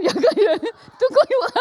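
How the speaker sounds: high laughter breaking through the words; laughing. Real, not acted. Laughing as she tells friends about the pastor.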